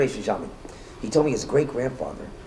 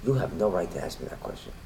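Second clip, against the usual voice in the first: very calm; 3 semitones lower, 4 dB quieter than usual. Retold or imitated. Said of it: "Rabbi very calmly said to him".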